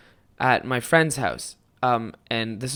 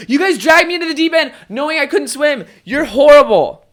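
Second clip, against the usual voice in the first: hammed-up tearful accusation; mock hurt outburst; 12 semitones higher, 8 dB louder than usual. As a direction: play the wronged kid lashing out. Upset child self confronting bullies.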